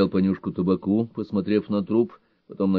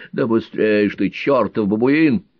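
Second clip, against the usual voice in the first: impatient shout; 6 dB louder than usual. Acted. Old man urging impatiently.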